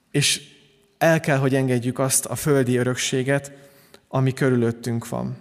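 ordinary delivery

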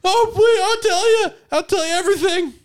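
high, loud, desperate begging; pleading in pain. Acted. Waiter kid begging Billy to let go, high and frantic. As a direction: beg for mercy through the pain. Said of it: "The kid starts screaming and crying".

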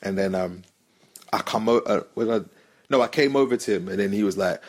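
ordinary talk

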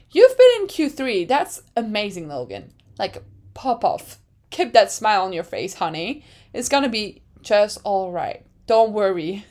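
soothing, then laughing through tears; comforting pep talk. Retold or imitated. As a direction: comfort him like a parent. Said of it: "hype up the troops".

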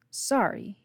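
put-on Southern accent. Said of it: "his accent ever deepening".

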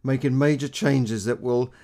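a hint of imitated political speech accent; Theresa May accent. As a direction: mimic a politician's speech accent with some force. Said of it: "I had to do that little accent".

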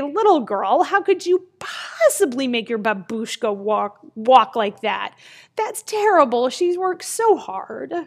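mock-indignant scolding; shaming. Townspeople shame a little girl for riding, mock-indignant. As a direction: scold a child in acted disapproval, rising at the end. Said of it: "they shame the little girl and they say".

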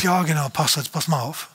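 a lightly voiced, eager believer protesting to the pastor; imitating a believer. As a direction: churchgoer answering the pastor, mildly fired up. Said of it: "du sagst jetzt".

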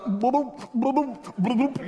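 silly bubbling boop noises as he goes under; mock sinking gurgle. Preacher mocks Peter sinking with gurgling boops. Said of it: "What he really said was something like".

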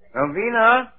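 high, slow feeble calling out; faking being ill. Pretend. Husband pretending to be dying calls his wife, feebly. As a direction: play the frail invalid calling his wife. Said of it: "as if you were very, very ill".

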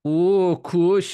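loud, high cartoon Swedish accent. Trying to impress the co-host, cartoon Swedish accent. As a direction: launch into a hammed-up Swedish accent. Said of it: "If you could do a Swedish accent".

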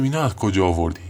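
mild mock yell of disbelief; retold shout. Narrator asking Sadegh where he got the tap, mild retold shout. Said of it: "داد زدم".

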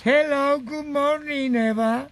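put-on loud hello in a hammy English accent; mock English. Uncle Rucho greets Eva, showy English accent. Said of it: "una pregunta en inglés".

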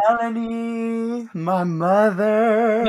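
put-on slow New Zealand accent. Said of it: "New Zealand accent".

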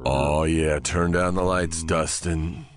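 soft, unhurried late-night DJ; mock-seductive radio host; rich radio voice. Host telling Dustin to dim the lights, mock-sultry radio voice. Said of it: "radio voice".

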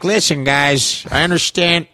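slow, drawn-out coach voice; lightly voiced coach calming his players, slow; wide receiver coach impression. Imitating his college coach addressing the players, slow and drawn out. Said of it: "He talked like this".

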